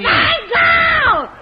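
high, loud call to the next room. Real, not acted. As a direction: shout back that you're coming. Calls back to the old man. (la nuora risponde al suocero, gridando)

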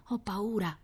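hushed, small admission of fear; frightened whisper. A narrator's reading. Scared little sister confiding in her brother, hushed whisper. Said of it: "bisbigliò Rita".

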